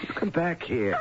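husband ordering his wife to come back; commanding. Acted. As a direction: stop her leaving the room.

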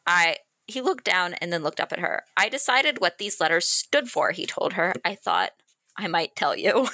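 reading a romance passage aloud, gently; story narration. Acted. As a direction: read it like a tender love scene. Reads book passage aloud.

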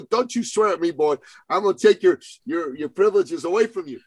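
high, scolding warning to a son; mock stern dad. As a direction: lay down the law, half-playing it. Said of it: "You go".

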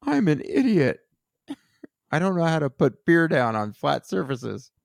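Jon impression. Shown as a demonstration. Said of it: "I'm gonna try".

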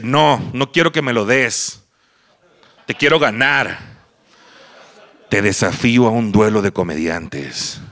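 slow, weighty acted defiance; proud challenge. Proud rival challenging him to a comedians' duel, slow and solemn. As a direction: throw down the challenge with pride. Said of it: "Y él, todo orgulloso".

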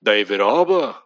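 lightly done Liverpool Scouse on David Harbour; a quick jokey Scouse accent; mock Scouser accent. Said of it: "we could go Scouser".

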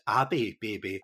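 "Abby" said with an open a; misread name. Retold or imitated. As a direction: misread "Abby" with a flat-out 'ah' start. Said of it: "I went to read the name".

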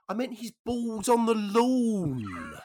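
put-on high, loud, drawn-out old-lady voice; comic granny correcting him; little old dear. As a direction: stretch the punchline out and slide down at the end. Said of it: "She went".

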